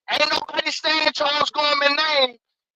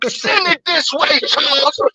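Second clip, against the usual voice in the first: calling out; 5 dB louder than usual. Real, not acted. Calling out to the other caller.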